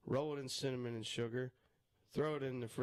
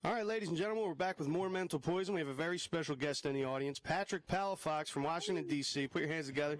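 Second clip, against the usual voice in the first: show host introduction; 3 semitones higher than usual. Acted. Host brings a special guest up from the audience, emcee announcement. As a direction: welcome the crowd back like an emcee.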